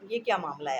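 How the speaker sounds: loud, worried demand; worried loud cry; troubled outcry. Acted. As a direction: call out in distress. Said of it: "बड़े ही परेशानी में साथ कहता है".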